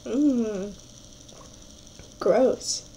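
talking through burning hot sauce; gasping around a spoonful of hot sauce; mouth full of hot food. Real, not acted. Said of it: "My mouth is on fire".

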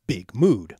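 "big mood" with both words stressed; two stressed syllables. Shown as a demonstration. Lecturer giving an example of a spondee, both words of "big mood" stressed. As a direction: give "big" and "mood" a beat each. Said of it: "made up of two stressed syllables".

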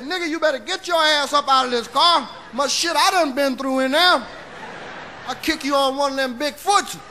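shouting at a stubborn friend; hammed-up scolding shout; mock angry yell. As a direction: bark him out of the car. Yelling at partner in car.

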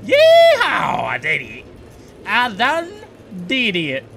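high whooping yeehaw of victory; real triumphant cheering. Real, not acted. Streamer cheering for himself after solving the puzzle, high whoops. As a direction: celebrate like you just won.

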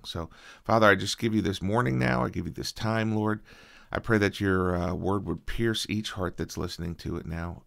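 earnest, even-toned congregational prayer; spoken prayer. Real, not acted.

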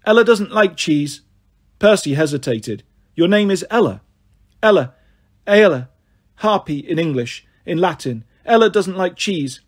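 skittish little harpy blurting words; lightly voiced harpy. Harpy Ella tells Percy she dislikes cheese, lightly voiced twitchy creature.

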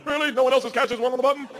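high-pitched mock disbelief; incredulous. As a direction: question it high, as if astonished. Acting disbelief at being alone.

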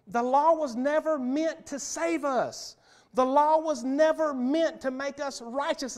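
law was never meant, spelled out slowly; slow emphatic preaching. Acted. Preacher slows down to drive the point home, deliberate. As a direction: lean on every word of it.

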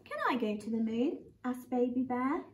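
put-on reading a picture book to children; lively storybook read-aloud; gently voiced bedtime story; story narration. Teacher reads a picture book aloud.

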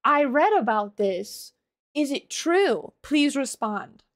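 slowly and deliberately imitate a puzzled man; slow mock questioning. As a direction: spell out each question slowly. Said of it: "him kind of being like".

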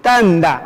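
"tanda" with a clear D after the N; model for repetition. Shown as a demonstration. Teacher asking learners to pronounce, careful model. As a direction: give "tanda" for the class to echo. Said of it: "A ver, pronuncien".

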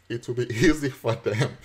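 real chuckle breaking into the words; laughing. Real, not acted. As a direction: say it through a laugh. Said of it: "I'm laughing because".

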